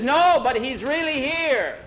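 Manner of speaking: high, excited protest; urgent high-pitched insistence; insistent yell. A narrator's reading. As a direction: cry it out high to be believed. Skeeter insisting over the service.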